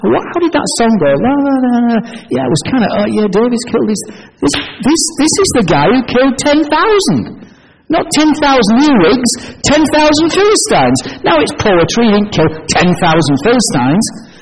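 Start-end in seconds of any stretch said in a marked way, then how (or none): 0.0-11.0 higher, excited townsfolk chatter; gossiping crowd. Retold or imitated. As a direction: mimic the buzzing crowd recalling the song. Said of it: "and everybody's saying".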